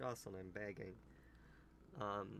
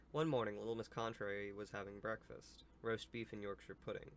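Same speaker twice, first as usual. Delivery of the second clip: storybook read-aloud; story narration; 3 dB louder than usual. Acted. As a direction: read the tale out to young listeners.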